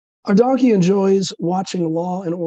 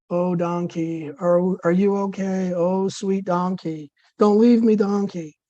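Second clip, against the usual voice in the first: less dramatic plea. Acted. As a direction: coax the donkey without much drama. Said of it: "with less dramatic effect than the wife".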